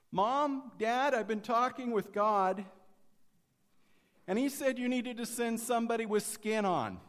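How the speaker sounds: put-on high, loud little girl's call; little girl calling from bed to her parents, high and loud; child calling out. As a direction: call it out like a small child with news.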